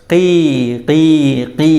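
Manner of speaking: drawn-out chick cheeps, spaced apart; teacher's demonstration of chick cheeping; imitated chick cry. Shown as a demonstration. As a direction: mimic a crying baby bird. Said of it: "എങ്ങനെ കരയുന്നത്?".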